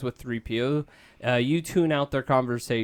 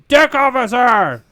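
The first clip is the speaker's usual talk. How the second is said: higher, loud call; louder yell; 11 semitones higher, 12 dB louder than usual. Acted. Han yells again for the officer, higher louder call. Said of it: "Han yells".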